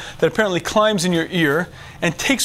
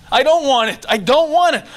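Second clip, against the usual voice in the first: firm refusal; 6 semitones higher, 3 dB louder than usual. Acted. Firm self-refusal acted out.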